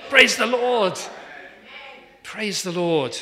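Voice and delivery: loud, high, laughing Praise the Lord; joyful exclaim. Real, not acted. Preacher answering his own question, loud and laughing. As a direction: burst it out with a laugh.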